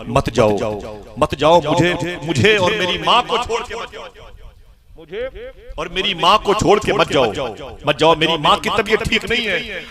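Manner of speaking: high, imploring retold plea; acted child's plea, rising in pitch; begging. Child begs caravan not to leave.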